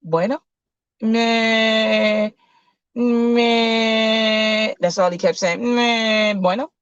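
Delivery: Spanish. Acted. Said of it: "and speaks Spanish".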